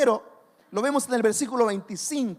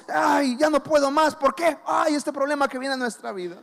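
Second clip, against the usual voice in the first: mock despairing cry; 2 semitones higher than usual. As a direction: cry out like someone giving up. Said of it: "nos centramos y decimos".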